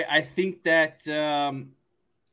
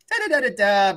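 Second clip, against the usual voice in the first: mock sing-song babble, pitched higher; Jack Collinsworth babble; 5 semitones higher, 4 dB louder than usual. Podcaster parodying announcer's chatter, mock sing-song babble. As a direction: parody an announcer rambling on, a bit louder. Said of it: "Jack Collinsworth is always like".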